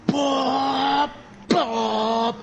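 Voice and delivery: held high mock blare; imitated noise.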